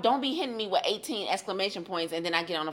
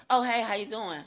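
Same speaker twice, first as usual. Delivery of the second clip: flat unexcited reply; 4 dB quieter than usual. Retold or imitated. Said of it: "I'm like".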